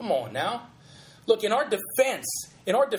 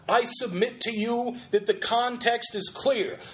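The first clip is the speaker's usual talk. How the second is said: ardent fervor; 3 semitones higher than usual. Acted. Host showing the fervor of the sermon, ardent preaching. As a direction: press each phrase with pulpit ardor. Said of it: "done with such ardent and ardor and fervor".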